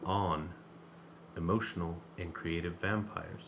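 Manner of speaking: slow, mellow radio host read; smooth late-night DJ delivery. Shown as a demonstration. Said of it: "That's my mellowed out radio voice".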